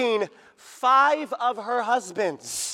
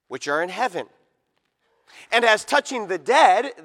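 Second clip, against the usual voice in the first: scripture reading; 6 dB louder than usual. Acted. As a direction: proclaim the verses steadily to the hall. Reads long scripture passage.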